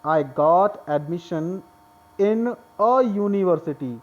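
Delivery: "I got admission in a university" read very slowly; slow example reading; slow dictation. Shown as a demonstration. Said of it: "अब देखिए next".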